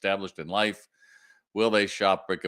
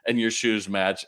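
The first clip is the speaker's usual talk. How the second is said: slow teasing; 3 semitones higher, 4 dB louder, much slower than usual. Retold or imitated. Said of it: "I said".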